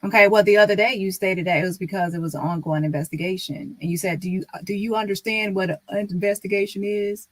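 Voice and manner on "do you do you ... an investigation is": lightly mimicking a smug staffer; a hint of his condescending tone; impersonating Marcus. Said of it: "trying to impersonate him".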